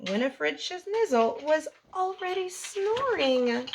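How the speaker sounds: lively bedtime story read-aloud for little ones; reading to children. A narrator's reading. The speaker reading a bedtime story to kids, lively read-aloud. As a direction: read it like story time, bouncy and rhymed. Reads picture book to children.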